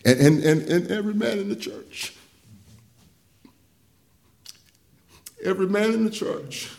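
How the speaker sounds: moved pastor recalling the hug; choked-up hush. Real, not acted. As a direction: let the feeling catch in it. Emotional recollection.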